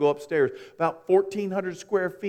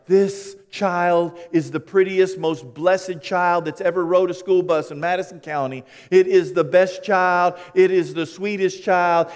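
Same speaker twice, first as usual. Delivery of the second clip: put-on slow, proud brag about the child, somewhat higher and louder; proud parent boasting; 3 semitones higher, 6 dB louder than usual. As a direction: gush like a doting parent, slowly.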